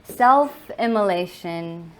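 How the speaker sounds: measured, emphatic spoken-word reading; poem recitation. Acted. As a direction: recite with weight and pauses between phrases. Begins reciting next poem.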